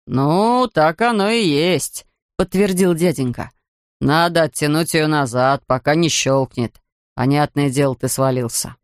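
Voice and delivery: low, slow grumbling attendant; lightly voiced grumpy beach attendant; gruff ticket man.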